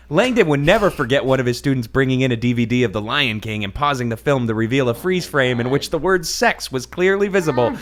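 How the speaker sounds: hammed-up book reading; mock dramatic reading. A narrator's reading. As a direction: read it like a big reveal. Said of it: "my dramatic reading here".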